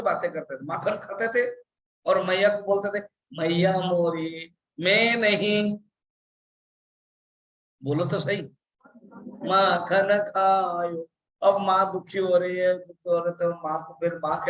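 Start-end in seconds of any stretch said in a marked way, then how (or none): 3.4-5.8 lightly voiced, slow child pleading to his mother; drawn out like a fibbing child; a hint of little Krishna denying the butter; dramatic child Krishna. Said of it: "थोड़ा सा dramatically कर रहा हूँ". 9.5-11.1 lightly voiced, slow child pleading to his mother; drawn out like a fibbing child; a hint of little Krishna denying the butter; dramatic child Krishna. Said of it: "थोड़ा सा dramatically कर रहा हूँ".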